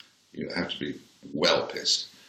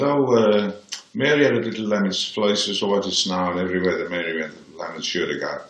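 reciting a nursery rhyme in Brummie; Brummie accent; 4 dB louder than usual. Retold or imitated. Reciting for a rock singer as if to the headmaster, Brummie accent. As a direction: put on Brummie for a dutiful recital. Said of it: "say something Brummie".

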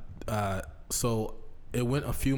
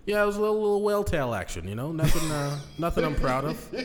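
laughing; 6 semitones higher, 3 dB louder than usual. Real, not acted. Embarrassed laughing confession.

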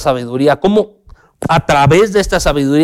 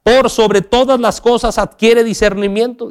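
higher, emphatic reading of the command; proclaiming; 6 semitones higher than usual. Real, not acted. Preacher crying out the verse to his church. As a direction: call out the verse with conviction. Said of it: "nos los está gritando".

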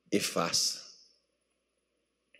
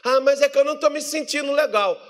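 mock whining believer; 5 semitones higher than usual. Believer making excuses not to pray, mock whining. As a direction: whine out a moper's excuses.

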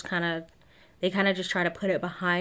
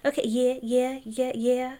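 small, higher-pitched yeah-yeahs; mock-sheepish agreement, pitched up; imitating piped-down compliance; 5 semitones higher than usual. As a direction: mimic someone meekly backing down. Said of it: "she piped down a little bit".

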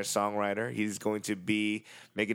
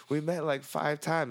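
imitating a higher-pitched, whiny protest; 7 semitones higher than usual. Acquaintance insisting they have met before, whiny imitation. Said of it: "whiny voice".

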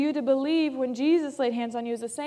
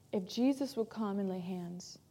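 hushed whisper of a doubting believer; whispered thought; 5 semitones lower, 9 dB quieter than usual. Retold or imitated. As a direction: breathe it like a private doubt.

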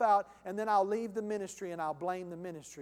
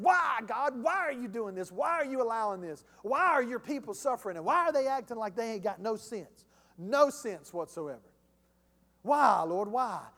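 mildly frustrated pleading, pressing each why; lightly acted exasperated questioning of God; frustrated, angry complaint. Preacher voicing Habakkuk questioning the Lord, frustrated. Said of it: "he got frustrated and angry".

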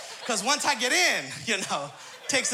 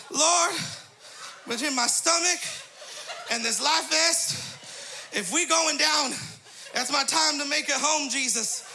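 mock prayer; 3 semitones higher than usual. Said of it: "And I said".

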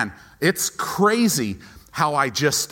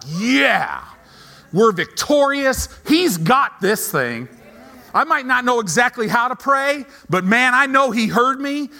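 much higher and louder, triumphant and sure; victorious joy; 8 semitones higher, 6 dB louder than usual. Retold or imitated. Pastor showing how to leave prayer, loud and triumphant. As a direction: shout it like the battle's already won. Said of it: "you should be like".

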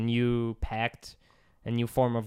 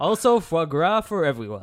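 put-on French accent; 3 semitones higher, 4 dB louder than usual. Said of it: "French accent".

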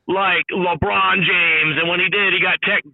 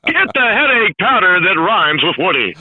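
Woody Durham impression; 3 semitones higher than usual. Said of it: "You do the best impressions".

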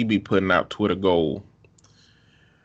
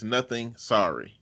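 meek apology; 6 dB quieter than usual. Retold or imitated. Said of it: "The correct answer is always".

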